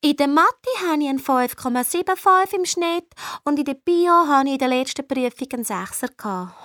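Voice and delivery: lightly voiced know-it-all classmate; mock her listing her good grades; imitating boastful Gina. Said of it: "von ihren guten Noten erzählt". (e Streberin nachgäfft)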